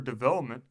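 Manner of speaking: put-on "development" with a strong accent on the "ope"; stress on OPE. A narrator's reading. Narrator showing Jackson's odd pronunciation, "development" stressed on "ope". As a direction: lean hard on the "ope" in "development". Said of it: "with a strong accent on the ope".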